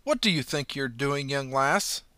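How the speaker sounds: policewoman's voice. Acted. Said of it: "put on her best policewoman's voice".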